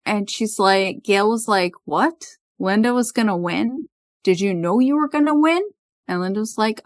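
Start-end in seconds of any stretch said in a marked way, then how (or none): 1.8-5.6 voicing a friend's disbelief, higher at the end; lightly acted astonishment; mildly surprised. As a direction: retell it as startled questions, pitch climbing. Retold Gail's shocked questions.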